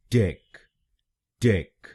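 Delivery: टेक said short as tek; first syllable. Shown as a demonstration. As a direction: model the syllable टेक crisply. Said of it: "हम बोलेंगे".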